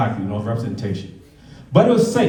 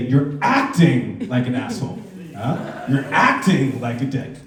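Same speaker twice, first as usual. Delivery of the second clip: slow lesson. Shown as a demonstration. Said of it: "What you have to do is say".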